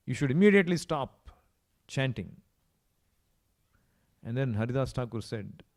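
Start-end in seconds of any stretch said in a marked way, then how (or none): 0.1-2.3 mildly angry command, raised on the first words; retold royal order with a touch of anger; angered king. King ordering Haridas to stop chanting, mildly angered. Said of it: "became even more angered".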